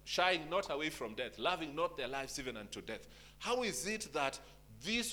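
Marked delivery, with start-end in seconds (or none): 0.1-3.1 quoting scripture. Acted. Pastor reading Revelation to the church, declaiming. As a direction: proclaim the verse with weight. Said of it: "And he said".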